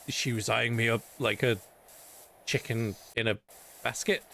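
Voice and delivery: lightly voiced noir narrator; noir detective. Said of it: "speak like a noir detective".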